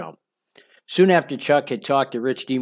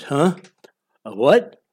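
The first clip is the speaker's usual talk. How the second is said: imitating a man feigning just waking; pretending to wake up; 3 dB louder, slower than usual. Imitating Chuck caught out in bed, feigned sleepy confusion. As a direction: play dumb, as if just roused. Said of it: "pretending that he was just waking up".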